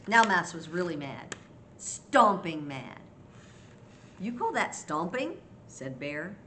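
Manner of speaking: lively picture-book reading; story narration. A narrator's reading. Grandma reads Hare's scolding to children, storytelling voice. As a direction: read expressively, as if to small children.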